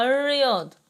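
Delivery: الرياضة with the lam silent and r doubled; sun-letter lam. Shown as a demonstration. Teacher confirming the lam is shamsiya, sun-letter assimilation. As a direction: hold the opening rr of الرياضة. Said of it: "يبقى شمسية".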